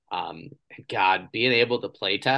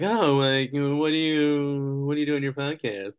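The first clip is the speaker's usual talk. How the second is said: mock curious stranger; 6 semitones higher, 3 dB louder than usual. Retelling a stranger's question.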